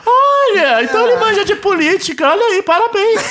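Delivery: high, patronizing mock praise; condescending pundit. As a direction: talk down to him with fake praise. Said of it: "Tentando diminuir a pessoa".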